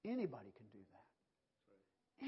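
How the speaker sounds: slow, drawn out, stressing anybody; slow preaching emphasis. Acted. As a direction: lean on it slowly for the church. Preacher repeats slowly.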